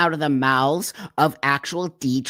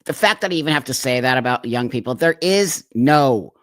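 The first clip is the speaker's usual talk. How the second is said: fed up; 3 dB louder than usual. Real, not acted. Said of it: "I've had it with these people".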